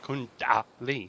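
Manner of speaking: "Kundali" slowly, syllable by syllable; "Kundali" slowed right down with a distinct "da"; pronunciation correction. Shown as a demonstration. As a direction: spell out "Kundali" as KUN-da-lee, drawn out. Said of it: "Not ah".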